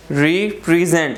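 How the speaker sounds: रिप्रेजेंट slowly as re, pre, zent; three syllables. Shown as a demonstration. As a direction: sound out रिप्रेजेंट in three beats. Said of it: "three syllables".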